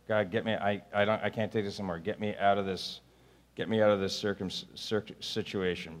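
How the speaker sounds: soft, low, exhausted muttered prayer; weary prayer. Acted. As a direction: sound worn out and beaten. Worn-out prayer voiced.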